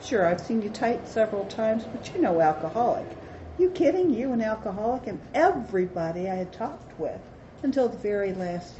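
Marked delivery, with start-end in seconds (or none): 3.6-5.1 mock incredulity. Mock incredulous friends quoted.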